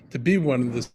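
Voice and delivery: signal cutting out; breaking up mid-sentence; glitchy robotic call. Real, not acted. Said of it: "We apologize for the poor signal".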